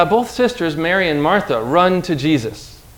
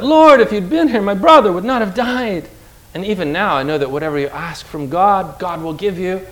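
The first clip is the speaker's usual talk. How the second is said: pleading; 3 semitones higher than usual. Acted. Martha pleading with Jesus.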